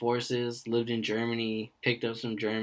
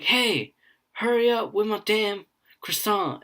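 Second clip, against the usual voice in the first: mock bossy call; 9 semitones higher than usual. Counselor joking to the kids, a mock bossy call. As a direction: bark it like a fake boss.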